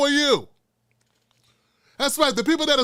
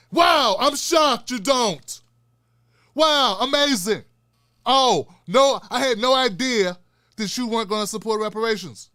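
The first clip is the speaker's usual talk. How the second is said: mock shock. Real, not acted. Sarcastic reply to white critic.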